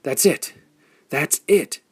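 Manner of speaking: high, loud burst of discovery; excited triumphant shout. A narrator's reading. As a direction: yell it as the answer hits you. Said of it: "he shouted".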